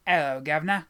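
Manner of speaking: a broad mock-Cockney greeting. Shown as a demonstration. Player joking with a friend, mock Cockney. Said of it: "in a very Cockney voice?".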